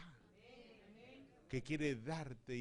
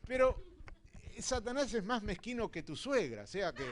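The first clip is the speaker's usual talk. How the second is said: loud, high, forceful sermon voice; fiery preaching; 5 semitones higher, 8 dB louder than usual. Real, not acted. Pastor preaches that Satan is stingy, loud and fiery. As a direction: shout it out to the whole church.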